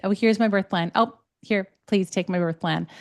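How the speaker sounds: simple, unapologetic handover; easy, matter-of-fact request; plainly matter-of-fact. Acted. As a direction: state it plainly, no apology in it. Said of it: "just plainly matter of fact".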